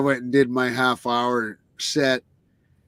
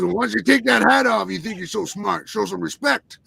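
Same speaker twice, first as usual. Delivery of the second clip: retold scolding; 6 semitones higher than usual. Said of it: "then he goes".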